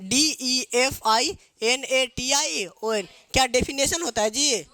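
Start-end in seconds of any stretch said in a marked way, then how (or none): 0.0-3.1 letter by letter, very slowly; slow spelling. Shown as a demonstration. Teacher spelling definition for the class, very slowly. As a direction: spell it out for copying. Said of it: "कैसे लिखोगे?".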